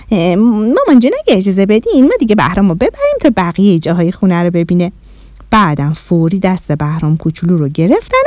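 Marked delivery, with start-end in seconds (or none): 0.1-4.9 quick, flustered rush of words. Acted. Shadi hurrying Bahram away from mum, flustered. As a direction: rush to cover an awkward moment. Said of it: "شادی با دست پاچگی گفت".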